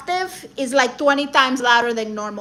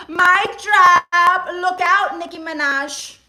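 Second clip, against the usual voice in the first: excited hype; 5 semitones higher, 3 dB louder, slower than usual. Real, not acted. Hyping herself after singing.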